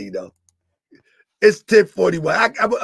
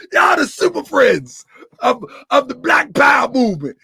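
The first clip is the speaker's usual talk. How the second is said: laughing taunt; 3 semitones higher than usual. Real, not acted. Laughing, mocking the chatters.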